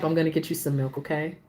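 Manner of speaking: ordinary talk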